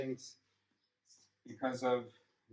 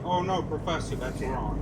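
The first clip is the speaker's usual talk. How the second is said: protesting student; 2 semitones higher than usual. Acted. Lecturer mimicking students who come to correct the professor, mock protest. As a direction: lightly imitate a student piping up to object. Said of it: "students who come in up and saying".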